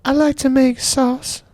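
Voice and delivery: a pop singer's voice. Pretend. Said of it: "Michael Jackson".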